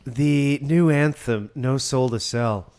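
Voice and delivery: hammed-up wine critic delivery; overdone beer review. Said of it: "he's trying too hard".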